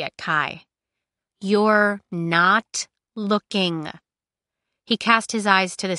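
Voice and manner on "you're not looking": "You're... not... looking", very slow, word by word; drawn-out, deliberate emphasis on each word of "You're not looking"; pointed instruction. Acted. Cinder pointedly instructs Kai.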